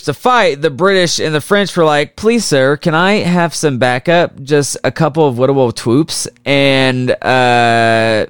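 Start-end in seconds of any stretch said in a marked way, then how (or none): 2.1-6.3 hammed-up meek little plea with babyish lisp; mock pleading. British and French beg America for backup, mock pleading. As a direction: beg like a small child, mockingly.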